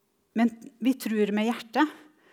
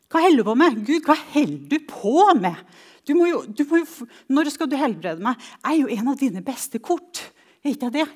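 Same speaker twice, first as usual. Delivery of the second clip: re-enacted pleading shout to God, pitched up; loud, higher, imploring protest; desperate cry; 4 semitones higher, 5 dB louder than usual. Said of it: "jeg roper i desperasjon".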